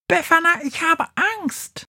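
a tiny mouse, choked with fear; frightened mouse. Acted. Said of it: "quietscht mit erstickter Stimme".

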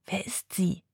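soft, hushed question; whispered question. Acted. Sina asking Charlie in the dark kitchen, whispered. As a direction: whisper it so nobody else hears. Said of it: "flüstert Sina".

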